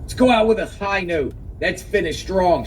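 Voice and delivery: a touch of forced encouragement; mock pep talk. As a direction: imitate someone pushing her to keep going. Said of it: "giving her this so-called pep talk".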